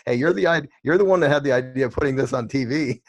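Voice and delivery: talking through a real laugh; loud, amused protest with laughter. Real, not acted. Guest teasing the host who nearly cried, laughing.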